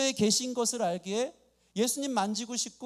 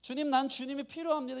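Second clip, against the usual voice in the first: mildly raised, insistent prayer; acted earnest pleading; 4 semitones higher than usual. Believer begs the nearby Lord for help, mildly urgent plea. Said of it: "이 간절함이 있는데".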